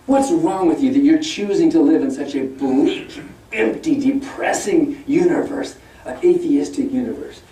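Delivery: lightly hammed-up preachy scolding; a touch of mock sermonizing; mock lecturing. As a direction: chide them, drawing out the bleak words. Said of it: "he was lecturing us atheists, like".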